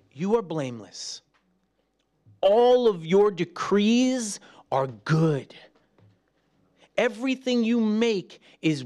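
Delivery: slow, pleading prayer to God; earnest prayer. Acted. Believer prays to God, slow and pleading. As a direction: pour it out humbly to the Lord.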